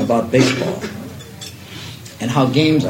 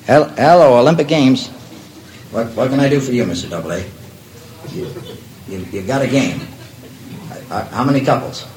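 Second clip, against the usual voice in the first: nervous stammering into a phone; phone call voice. Acted. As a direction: play the game executive on the line. One-sided phone call with Doubleday.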